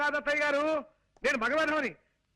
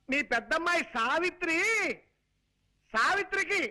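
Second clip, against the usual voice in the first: higher, worked-up telling of good news; overexcited announcement; 4 semitones higher than usual. Acted. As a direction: announce it with big flailing effort. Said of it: "ఇలా కాళ్ళు చేతులు ఊపుతూ హైరాణ పడాలా".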